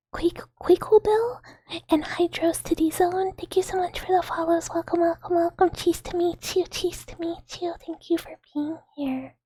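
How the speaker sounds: sing-song hello to the chat; bubbly greeting. Real, not acted. Greeting new followers on stream.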